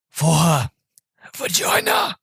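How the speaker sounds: halting, squeaking up very high on the last word; mock-shocked blurt. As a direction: blurt it like a scandalized child, play-acted. Retells character blurting a shocking word.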